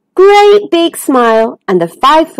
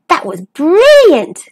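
higher, drawn-out glee; giggly delight; 6 semitones higher, slower than usual. Acted. Dennis after his big bounce, slow gleeful delight. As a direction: stretch it out with delight. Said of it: "giggled Dennis".

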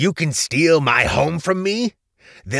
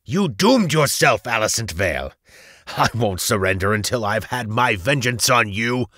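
loud, vengeful villain rant; cursing and screaming; 7 semitones higher, 6 dB louder than usual. A narrator's reading. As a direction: swear revenge, rising to a high scream. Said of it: "Valentus proceeded to curse and scream".

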